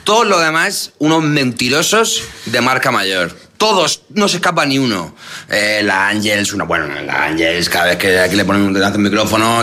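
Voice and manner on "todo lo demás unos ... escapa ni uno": over-the-top mock outrage, pitched high; sarcastic exaggeration. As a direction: lay the sarcasm on thick. Mocking praise of journalists' honesty.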